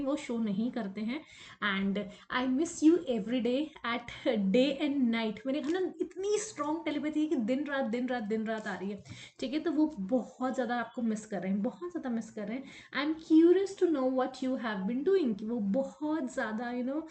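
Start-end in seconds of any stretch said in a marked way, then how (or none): 1.6-5.4 slow, drawn-out love message; lover's message. Acted. Voices absent lover's message. 12.9-15.4 very slow, measured channelled message; slow, deliberate quoting; lover's message. Acted. Voices absent lover's message.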